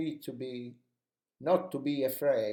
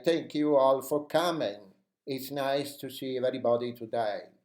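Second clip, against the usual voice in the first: "coming" punched louder in an energetic welcome; stress on coming; 4 dB louder than usual. Shown as a demonstration. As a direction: greet the viewers, hitting the word "coming". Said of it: "we just stress the word coming".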